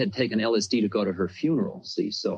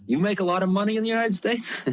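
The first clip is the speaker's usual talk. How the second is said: imitating the guru; 11 semitones higher than usual. Guru teasing about the car.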